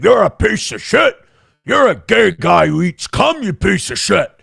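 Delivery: hammed-up angry name-calling; mock rant in a put-on voice; imitated anger. Imitating Karmic flying off the handle, mock angry. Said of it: "he got really mad".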